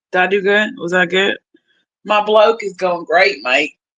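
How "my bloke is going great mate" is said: clumsy put-on Australian accent. Answering how her new bloke is going: put-on Australian accent. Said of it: "I need to work on my Australian accent".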